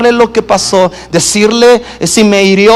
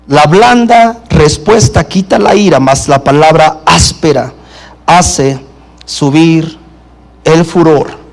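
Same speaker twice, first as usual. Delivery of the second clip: low repeated reading; 5 semitones lower than usual. Shown as a demonstration. Preacher restating the proverb for the congregation, lower and calmer. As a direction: repeat "La blanda respuesta quita la ira" lower, with "mas la palabra áspera hace subir el furor" dropping low. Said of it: "Dice la Escritura".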